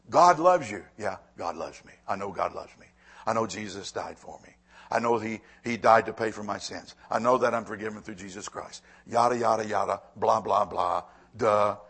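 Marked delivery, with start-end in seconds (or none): 0.1-6.4 bored, dismissive shrug in the voice; jaded churchgoer. Retold or imitated. Pastor mimicking a jaded listener, bored and dismissive. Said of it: "so that our mindset can be". 9.1-11.8 bored yada yada mumble; dismissive. Retold or imitated. Pastor mocking a bored listener, dismissive. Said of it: "so that our mindset can be".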